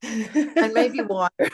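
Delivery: slow, through a laugh; amused. Real, not acted. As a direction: let a chuckle into the words. Jokes while retelling her instructions.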